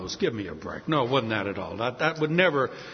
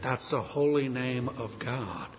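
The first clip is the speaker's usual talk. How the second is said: softer, slower, awed murmur; hushed awe; 3 semitones lower, 6 dB quieter than usual. Retold or imitated. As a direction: say it like a shocked realization. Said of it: "the Jews that were there said".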